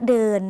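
"เดิน" with the vowel held long. Shown as a demonstration. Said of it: "คำนี้ออกเสียงยาวค่ะ". (ออกเสียง "เดิน" ลากสระให้ยาว)

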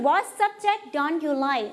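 What subject don't you like said slowly with the pitch falling at the end; slow model question, voice dropping on like; falling question tune. Shown as a demonstration. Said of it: "เราจะใช้การลงเสียงต่ำ". (อ่าน What subject don't you like ช้าๆ ลงเสียงต่ำ)

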